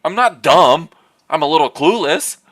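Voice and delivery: lightly voiced prim housewife, insisting; a touch of the prim fifties wife; 1950s housewife. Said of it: "the mean housewife voice".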